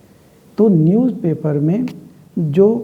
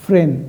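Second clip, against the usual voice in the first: फ्रेंड isolated and clipped off as the stressed part; stressed syllable alone; 4 dB louder, much faster than usual. Shown as a demonstration. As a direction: say just फ्रेंड, cut short. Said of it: "first syllable होगा".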